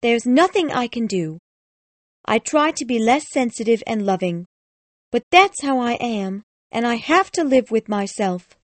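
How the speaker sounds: high, plaintive self-pity; about to cry. A narrator's reading. Fawning lady pleads her loving nature, close to tears. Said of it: "She started to cry softly".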